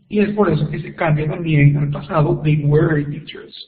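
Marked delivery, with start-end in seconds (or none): 2.4-3.6 slow demo. Shown as a demonstration. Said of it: "teacher demonstrating example sentence".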